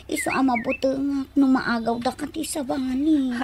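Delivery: unvoiced, worried whisper; wife whispering that she fears losing him; fearful whisper. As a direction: confess your fear under your breath. Wife confessing her fear of losing him.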